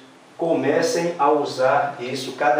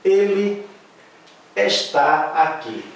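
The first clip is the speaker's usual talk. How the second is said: slow read; 5 semitones higher, 3 dB louder, slower than usual. Shown as a demonstration. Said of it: "segunda frase".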